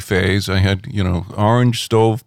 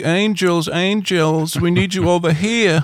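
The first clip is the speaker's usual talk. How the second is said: put-on very high, slow British accent; 9 semitones higher than usual. Retelling calls to the Angels at a rock band's show: the lead singer's British accent. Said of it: "in his British accent".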